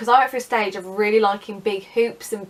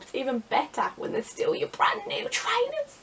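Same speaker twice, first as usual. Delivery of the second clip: very high, sarcastic squeak; mock enthusiasm; 12 semitones higher, 4 dB quieter than usual. Vlogger on sisters stealing her things, mock enthusiasm. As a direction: climb to a high squeal of fake delight.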